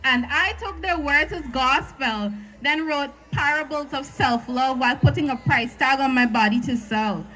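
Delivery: rhythmic slam poem delivery; spoken word poetry. Acted.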